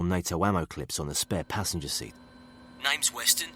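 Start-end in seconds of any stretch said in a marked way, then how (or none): 2.8-3.5 higher, thick Birmingham voice; a hint of Brummie soldier; Brummie accent. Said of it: "He had a Brummy accent thick as old boots".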